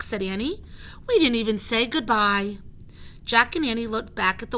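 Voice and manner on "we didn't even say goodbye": Annie's voice. Acted. Annie voiced in a read story.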